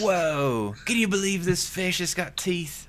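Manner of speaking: a hint of Australian accent; wildlife-host Australian accent, hammed up; mock Australian accent. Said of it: "I don't know what that accent is".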